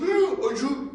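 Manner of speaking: one last push for help; weak cry for help. Retold or imitated.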